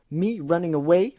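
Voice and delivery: loud indignant cry; outraged shout. Acted. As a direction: shout it back, offended. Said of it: "Rainbow Dash shouted".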